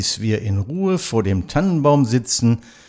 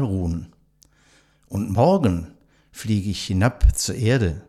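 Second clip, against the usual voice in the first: poem recital. Acted. Host reciting a poem to nursing home residents, measured recital. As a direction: recite it like a classic holiday poem for listeners.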